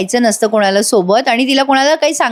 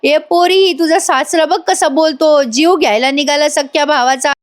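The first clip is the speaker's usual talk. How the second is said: deliberate yelling, retold; 5 semitones higher than usual. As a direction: imitate an aunt raising a cry for witnesses. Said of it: "ती आत्या मुद्दाम ओरडत असते". (मुद्दाम ओरडण्याची उंच स्वरातली नक्कल)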